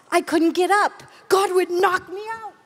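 normal talking voice

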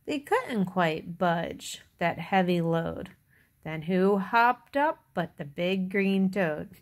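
put-on measured read-aloud for little children; story narration. A narrator's reading. Reader tells children about Little Blue Truck, storytelling. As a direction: read it out like a picture book. Reads picture book to children.

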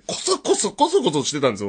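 normal talking voice

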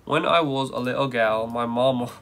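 put-on British reading; hammed British vowels, r dropped; British accent. Shown as a demonstration. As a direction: try a British accent on the poem. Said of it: "read it in a British accent".

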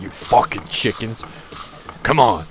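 snapping at the chickens in jest; a half-joking angry snap at the chickens; mock angry yell. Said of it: "I was, like, really angry at the".

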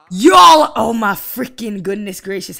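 high loud wail then rant; exasperated outcry. Real, not acted. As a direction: cry out in disbelief. Exasperated outburst at Sims.

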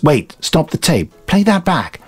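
excited, rising mock urgency; half-hearted acted alarm; other character. The narrator imitates a film character in mock urgency. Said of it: "the other character goes".

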